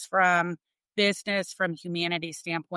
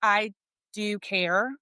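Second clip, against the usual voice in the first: tearful; 3 semitones higher, slower than usual. Real, not acted. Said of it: "It's crazy".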